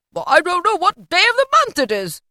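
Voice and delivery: high, loud, happy bewilderment; giddy Scrooge exclaiming; excited cry. A narrator's reading. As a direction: cry it out, gleefully lost. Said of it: "cried Scrooge".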